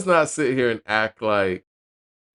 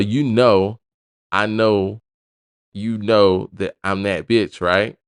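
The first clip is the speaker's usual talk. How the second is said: a light imitation of a rapper's New York accent. Reviewer quoting the rapper's lyric to viewers in her Bronx accent. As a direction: slip into a hint of the rapper's Bronx drawl. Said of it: "Sorry, I had to say it in that accent".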